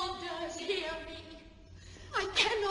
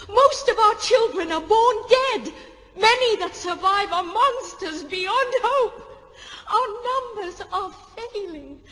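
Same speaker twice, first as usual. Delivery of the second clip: anger; 3 semitones higher, 6 dB louder than usual. Acted. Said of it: "Tell me how to express my anger".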